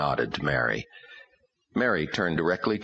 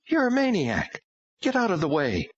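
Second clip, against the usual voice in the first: put-on angry girl. A narrator's reading. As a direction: spit it at him, a hint of fury. Daughter lashing out.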